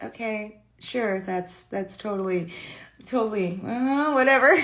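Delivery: imitated half-hearted agreement; going along, confused. Confused son just going with it, half-hearted agreement. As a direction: hesitantly humour them, unconvinced. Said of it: "he just went with it".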